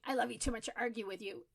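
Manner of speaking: hurried and frustrated, fast; a frustrated parent rushing it. Shown as a demonstration. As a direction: rattle it off, fed up. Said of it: "if you're feeling really frustrated and overwhelmed".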